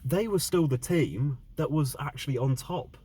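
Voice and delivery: exasperated, loud and worked up; angry rant. Real, not acted. Fan ranting about team's loss.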